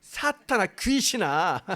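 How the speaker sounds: acted rebuke, starting high; harsh rebuke. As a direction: cry out a mock reproach from a high first word. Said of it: "책망도 보통 책망입니까? 뭐라 그랬어요?". (높게 시작해 꾸짖는 흉내)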